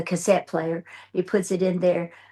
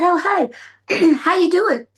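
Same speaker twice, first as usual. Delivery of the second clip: mock sweet greeting; 10 semitones higher, 5 dB louder, slower than usual. Greeting executive, sweetly retold.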